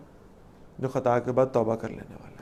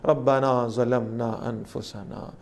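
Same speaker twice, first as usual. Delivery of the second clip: very slow, low, humble prayer; humble plea; 4 semitones lower, 3 dB quieter, much slower than usual. Retold or imitated. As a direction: let each word sink in repentance.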